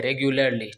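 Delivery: रेगुलरली as "reg-yu-lar-lee", falling at the end; रेगुलरली repeated as a model word; correct pronunciation. Shown as a demonstration. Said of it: "बल्कि रेगुलरली पढ़ते हैं". (रेगुलरली सही उच्चारण में दोहराया)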